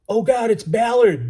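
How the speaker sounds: high, drawn-out horrified yell; slow, high-pitched anguished call; ringing shout. A narrator's reading. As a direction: cry out across open water. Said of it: "Southern man's voice ripping, ringing out".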